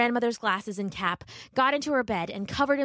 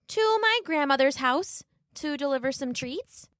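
put-on high, polite little girl voice; a small girl minding her manners; 6 semitones higher than usual. Little Red thanking the wolf, high and polite.

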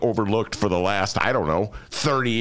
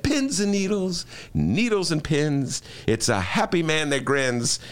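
slow, singsong self-soothing chant; calming mantra; 4 semitones higher than usual. Retold or imitated. Host reciting his calming mantra to himself. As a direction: recite it slowly to calm down. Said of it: "I said".

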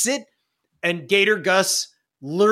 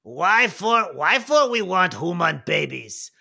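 slow goblin elder question; Old Knob Jinkies; slower than usual. Acted. Goblin elder addressing the gobs, slow questioning. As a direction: ask it slowly, in rhetorical broken speech. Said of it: "And he goes".

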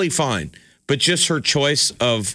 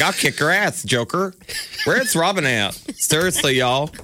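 higher-pitched, folksy man's-man hero; mock a casual tough-guy superhero, pitched up; Batman; 5 semitones higher than usual. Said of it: "He's just like".

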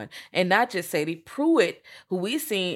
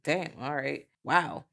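hushed amazement; 2 semitones lower, 8 dB quieter, slower than usual. Retold or imitated. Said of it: "all the changes are like".

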